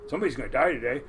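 a low creeping inner voice; ominous inner voice. Retold or imitated. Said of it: "this little voice in your head".

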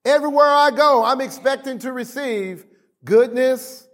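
high, insistent declaration; impassioned preaching. Real, not acted. Preacher teaching the congregation what to say, impassioned preaching. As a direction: preach it as a confession to repeat.

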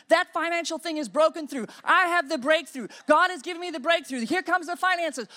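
loud, commanding declaration; decreeing the breakthrough out loud; bold decree. Shown as a demonstration. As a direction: proclaim it with full authority. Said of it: "now you begin to decree".

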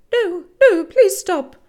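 high, loud frantic plea; loud desperate scream. A narrator's reading. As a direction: scream to make the attacker stop. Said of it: "a loud, desperate voice screamed out".

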